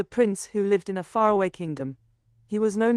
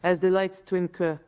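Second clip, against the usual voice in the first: lower-pitched poem in a French accent; 3 semitones lower than usual. Shown as a demonstration. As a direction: recite in a French accent, phrase by phrase. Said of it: "Speak with a French accent".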